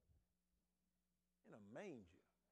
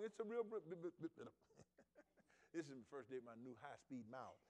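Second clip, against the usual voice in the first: ordinary talk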